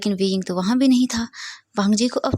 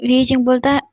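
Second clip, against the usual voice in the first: ordinary delivery, nothing marked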